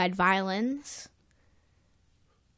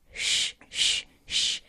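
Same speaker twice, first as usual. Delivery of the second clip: shushing; 5 dB quieter, slower than usual. Retold or imitated. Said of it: "she said".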